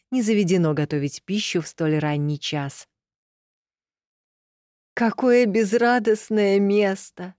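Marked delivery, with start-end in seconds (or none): 4.9-7.3 slow, dismayed cry; shocked exclamation. A narrator's reading. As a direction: gasp it out in dismay. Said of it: "воскликнул потрясённый Мелихара".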